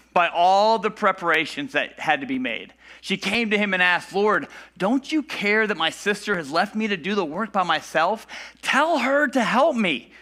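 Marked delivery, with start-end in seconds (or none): 4.1-10.1 exasperated. Retold or imitated. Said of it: "how exasperated, how annoyed she is".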